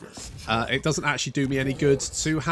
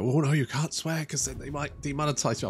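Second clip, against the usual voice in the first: higher-pitched mock worry; mock-anxious creator's objection; fretting content creator; 4 semitones higher than usual. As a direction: imitate an over-cautious creator lightly. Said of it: "some content creators go".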